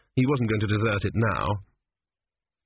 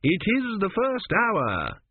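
higher, slower, helpless repetition; repeated by rote; 10 semitones higher, much slower than usual. Acted. Priest repeating himself helplessly to the stubborn queen. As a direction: say it again, stuck and lost. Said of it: "he repeated".

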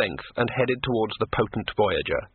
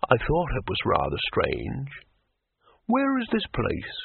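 sea troll voice; slower than usual. A narrator's reading.

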